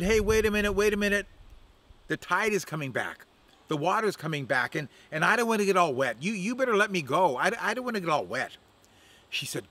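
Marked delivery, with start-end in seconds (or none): 0.0-8.6 alarmed Crow. Acted.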